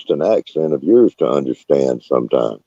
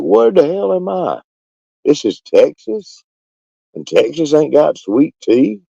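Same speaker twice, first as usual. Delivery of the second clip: can't believe where he's landed; outraged disbelief; 10 semitones higher than usual. Retold or imitated. To the Texas waitress with no sweet tea, disbelieving.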